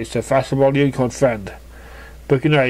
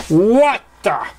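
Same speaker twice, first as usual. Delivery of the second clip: surprised gasp; 7 semitones higher, 4 dB louder than usual. Acted. Surprised pony exclaims mid-story.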